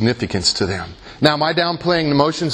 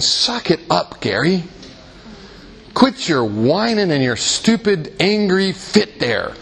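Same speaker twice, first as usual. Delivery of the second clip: slow, raised-pitch imitation of a telling-off; mock scolding; 4 semitones higher, slower than usual. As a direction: draw out a pretend reprimand. Acts out God not scolding him.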